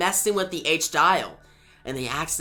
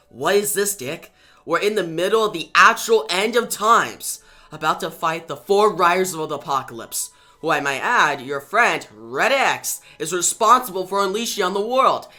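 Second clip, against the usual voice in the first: angry confrontation; 3 semitones higher, 5 dB louder than usual. Acted. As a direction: demand answers, sharp and fast. Starfire confronts Dick in argument.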